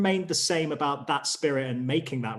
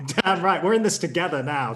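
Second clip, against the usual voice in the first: louder, laughing and agreeing; laughing agreement; 3 semitones higher, 5 dB louder than usual. Real, not acted. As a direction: laugh it out, cheering him on.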